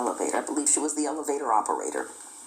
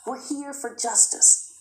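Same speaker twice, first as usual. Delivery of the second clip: firm demand; 9 semitones higher than usual. Retold or imitated. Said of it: "They said".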